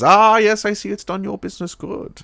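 high, theatrical villain voice; sinister villain voice. Retold or imitated. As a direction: ham up a creepy showman. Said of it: "Doctor Vink comes in".

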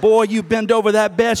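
loud, commanding order; wrathful mom. Acted. Mom whose face fills with wrath, wrathful order. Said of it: "wrath of God came over her face".

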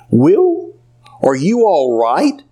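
high, lightly voiced old woman asking; a hint of a worried elderly lady; Edith, concerned. A narrator's reading. Edith checks on the heavy-hearted doctor, lightly voiced and worried.

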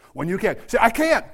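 mildly mocking complainer; mock whiny can't. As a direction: whine the can't lightly. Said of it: "can't ever say "I can't".

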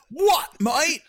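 loud, high bad fake British accent. Overzealous weekend fan teasing fellow fans, loud bad fake British accent. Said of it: "That's actually not an English accent".

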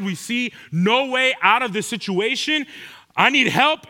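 desperate cries. Acted. Disciples crying out to Jesus in the storm, pleading. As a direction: beg to be saved from the storm. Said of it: "shouts of cries".

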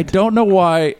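high mock-Australian yelp; put-on Australian voice; horrible Australian accent. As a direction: whine it up high in bad Aussie. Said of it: "I do a horrible Australian accent".

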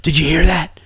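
hushed whisper of a hunter in the dark woods; mock whisper. Comic mocking TV Bigfoot hunter whispering in the woods. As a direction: breathe it like something is out there.

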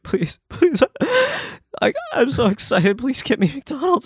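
high, pleading and overjoyed; high mock plea to his sister for McDonald's; mock excited begging. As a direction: beg like a kid for a treat. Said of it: "I'm just so fucking happy and sad".

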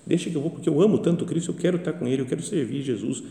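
gentle pleading Mary. Acted.

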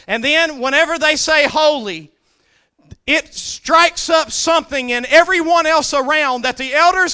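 high, loud, ringing preaching voice; full-force preaching. Acted. Preacher voicing the elders casting their crowns, loud preaching. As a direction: proclaim the elders' surrender.

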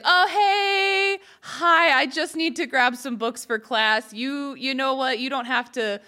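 high, bright mock-casual roommate voice; breezy fake-nonchalant greeting, pretending nothing's odd; roommate walking in. Roommate acting casual about barging in, mock-breezy greeting. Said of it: "It'd be like".

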